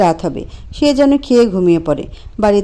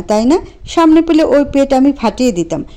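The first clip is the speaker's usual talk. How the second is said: furious; 4 semitones higher than usual. Acted. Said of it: "ক্ষিপ্ত হয়ে বলল".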